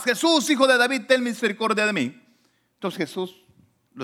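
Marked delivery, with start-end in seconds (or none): 0.0-2.2 high-pitched imitated shout; retold raised-voice cry. Blind man shouting to Jesus over the crowd, imitated cry. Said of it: "levantaba la voz y le gritaba más".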